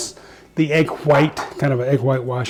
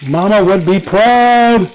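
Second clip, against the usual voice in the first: proud exclaim; 5 semitones higher, 6 dB louder, slower than usual. Real, not acted. Chef admiring finished fried chicken.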